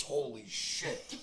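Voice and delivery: slow, laughing disbelief; laughing gym teacher. Retold or imitated. Host imitating his old gym teacher, laughing slowly. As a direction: laugh through it like a stunned teacher. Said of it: "the gym teacher goes".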